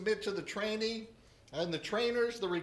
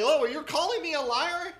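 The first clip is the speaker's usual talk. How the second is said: drill sergeant; 8 semitones higher, 7 dB louder than usual. Retold or imitated. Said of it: "drill instructor to say".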